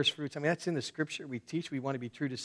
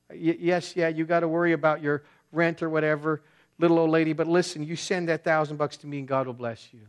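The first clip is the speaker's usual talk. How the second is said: mock televangelist; 3 semitones higher, 6 dB louder than usual. Mocking a TV preacher asking money.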